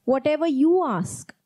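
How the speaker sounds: "you" in "Whatever you ask" pressed and falling; stress on you. Shown as a demonstration. Preacher insisting the asking is yours, "you" stressed. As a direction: lean on "you", let the phrase fall. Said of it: "not someone else asks".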